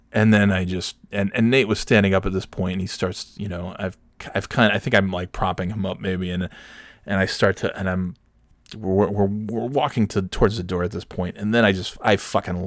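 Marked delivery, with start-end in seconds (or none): none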